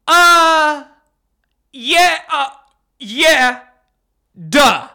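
high drawn mock yeah; sarcastic yeah. Real, not acted. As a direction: roll your eyes audibly. Sarcastic reaction.

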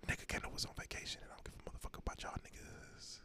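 spooky Halloween whisper; creepy whisper. Pretend. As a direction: hiss it like a creepy ghost. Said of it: "whispering like that".

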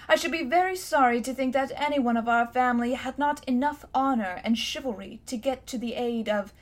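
lofty, condescending; high and mighty. Acted. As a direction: talk down to the boy. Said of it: "in a very high and mighty voice".

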